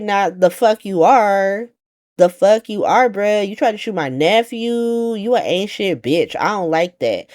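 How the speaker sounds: a hint of a high sassy voice throwing shade; defiant Ava. Ava tells off the warlord.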